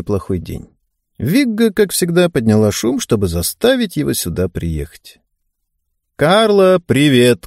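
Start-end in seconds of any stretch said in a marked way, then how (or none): 6.2-7.5 louder call across the room. Acted. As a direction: call her name out loud. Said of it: "крикнул он".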